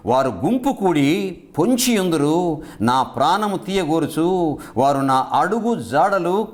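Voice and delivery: drawn-out reading of the verse; slow scripture reading. Acted. Preacher reads the psalm verse aloud, slow and measured. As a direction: read the psalm slowly and deliberately.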